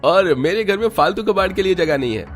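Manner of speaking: high, slow, laughing taunt; gloating laugh. Acted. Son mocking his mother while throwing out her things, gloating with laughter. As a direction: savour the victory with a sneering laugh.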